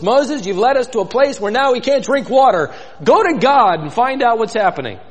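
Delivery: a touch of a grumbling crowd; mildly aggrieved demand. Retold or imitated. People grumbling at Moses, a lightly voiced complaint. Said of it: "We're grumbling at Moses".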